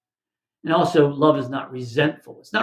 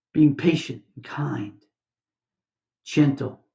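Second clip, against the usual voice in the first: slow breathy whisper of the verse; slower than usual. Real, not acted. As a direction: hush it as a tender reminder. Preacher softly reads love's traits.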